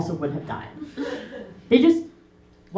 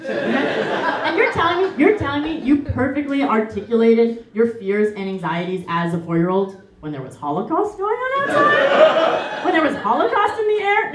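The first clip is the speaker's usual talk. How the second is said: higher, rising disbelief; incredulous mock outrage; 5 semitones higher than usual. Real, not acted. Roasting grandma at the funeral, incredulous. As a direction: call her bluff, incredulous. Mocking the nanny's story.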